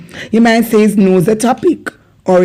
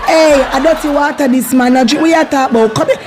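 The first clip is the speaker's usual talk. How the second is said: excited Jamaican warning; 3 semitones higher than usual. Acted. Acting a warning about dirty water.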